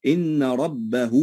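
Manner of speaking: slow recitation, ربه ending in a long 'huu'; ha joined with waw. Shown as a demonstration. Teacher demonstrates the rule, ربه drawn out as rabbahuu. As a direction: stretch the last vowel of ربه into oo. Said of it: "فتوصل بواو هنا لأنها مضمومة".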